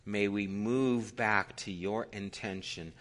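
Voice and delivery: measured public prayer, long pauses; low-key, reverent address to God; solemn prayer. Real, not acted. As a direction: pray earnestly, phrase by phrase. Leads the closing prayer.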